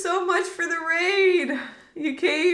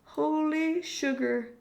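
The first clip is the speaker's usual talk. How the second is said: stunned; 6 dB quieter, slower than usual. Real, not acted. Stunned after the game.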